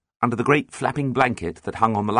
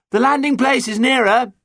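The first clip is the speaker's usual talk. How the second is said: very high, loud protest; shouted objection; 14 semitones higher, 6 dB louder than usual. A narrator's reading. Pirate argues with the captain from the lookout, shouting. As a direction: yell the objection down from above.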